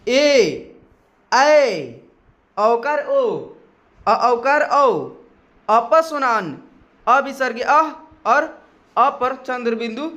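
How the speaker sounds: each vowel called out slowly and clearly; vowel recitation. Shown as a demonstration. Teacher recites remaining vowels for class, slow and clear. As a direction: say every vowel for students to repeat. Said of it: "आप भी साथ साथ उच्चारण करिए".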